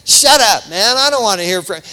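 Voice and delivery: acted touchy backslider; mock irritated rebuff. Acts backslider rebuffing the callers.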